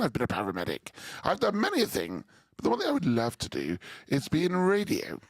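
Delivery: lightly voiced posh lady; a hint of a well-spoken lady introducing herself; gentle mock posh lady voice; imitating Teresa. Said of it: "I need to set the scene".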